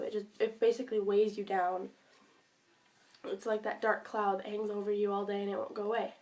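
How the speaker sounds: talking around a cough drop; mouth full. Real, not acted. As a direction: speak with a lozenge in the cheek. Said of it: "cough drop in my mouth".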